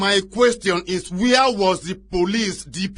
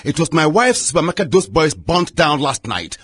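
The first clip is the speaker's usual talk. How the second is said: incredulous, raised-voice rebuke; indignant outrage; 4 dB louder than usual. Acted. Chief outraged at the sergeant's greeting after the fire, loud. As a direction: throw the greeting back at him, outraged. Chief furious about burnt supermarket.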